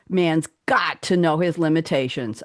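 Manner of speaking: "got" emphasized as if in capitals; stress on got. Shown as a demonstration. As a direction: read the quote with a heavy "got". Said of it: "all in caps".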